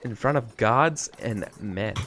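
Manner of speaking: sultry voice. Shown as a demonstration. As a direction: purr it out seductively. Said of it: "like, sultry voice".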